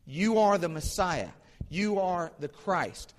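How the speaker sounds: lightly acted proclamation, pitch lifted; proclaiming. Blind beggar announces the Messiah to all around, mildly acted proclaiming. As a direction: declare it for anyone within earshot, drawn out. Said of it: "starts proclaiming the identity of Christ".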